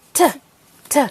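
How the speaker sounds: T as a quick "tuh"; always fast. Shown as a demonstration. Teacher showing a letter sound, always fast. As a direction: keep each T very short. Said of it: "this one is always fast".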